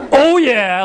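cocky jock "Oh yeah"; punchy, swaggering "Oh yeah" with a falling end; cool. Shown as a demonstration. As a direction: say "Oh yeah" like a proud football player. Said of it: "like that, like you're on the football team".

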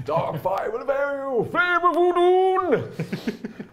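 high, very slow and booming battle cry; epic wizard duel. Acted. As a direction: draw it out like a wizard defying a demon. Acting out a wizard's movie quote.

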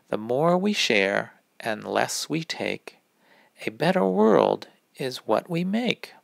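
put-on lilting poem for kids; rhyme reading. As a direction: gently read the winter rhyme. Reads seasonal rhyme to kids.

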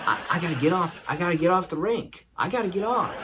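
frantic inner voice, retold; panicked self-talk. Panicked thoughts while struggling on rink.

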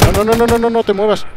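high, loud burst of no's; urgent alarm. Real, not acted. Begs game target to stay still.

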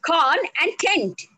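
slow, syllable by syllable; broken into syllables. Shown as a demonstration. Trainer shows learners two syllables, split apart slowly. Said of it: "can be broken into two syllables".

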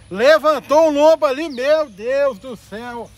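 loud, excited fishing commentary; excited shouting. Real, not acted. Fisherman telling viewers it's a good fish, excited and loud. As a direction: call out the big catch with rising excitement. Excited reveal of a big catch.

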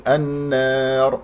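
النار stopped on a thick, vowelless ر; heavy final ra. Shown as a demonstration. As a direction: hold the alif, close النار on a heavy ر. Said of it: "إذا وقفت طبعًا تكون الراء مفخمة". (النار بالوقف على راء مفخمة)

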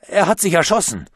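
high, loud shaken outburst; stammering. A narrator's reading. Nico reports a death on the phone, stammering in shock. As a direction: blurt the news in shock. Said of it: "stammelte der".

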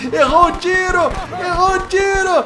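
high, loud mocking cheer; excited gloating. Real, not acted. Gloating at the survivor who missed his shot, loudly.

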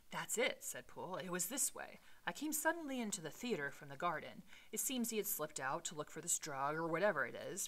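measured read-aloud storytelling voice; story narration; reading the novel aloud. Acted. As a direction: read the Victorian prose with care.

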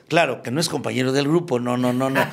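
normal talking voice

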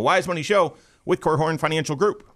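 high, energetic segment sign-off; voice going up. Real, not acted. Radio host closing the segment for a break, voice going up. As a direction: lift the pitch and add energy to close. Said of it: "my voice goes up really quick".

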